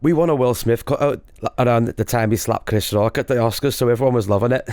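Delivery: tentative attempt at a Scottish accent; reluctant stab at a Scottish accent. Shown as a demonstration. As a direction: have an unsure go at Scottish. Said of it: "you'll be amazing at a Scottish accent".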